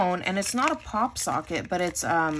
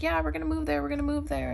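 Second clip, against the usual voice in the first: excited; 8 semitones higher, faster than usual. Retold or imitated. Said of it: "I'm always telling her, like".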